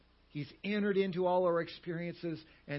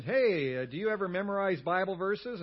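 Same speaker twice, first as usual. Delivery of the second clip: chummy questioner; 4 semitones higher, 5 dB louder than usual. Retold or imitated. Acts asking a fellow Christian.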